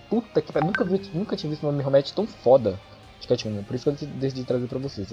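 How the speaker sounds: normal talking voice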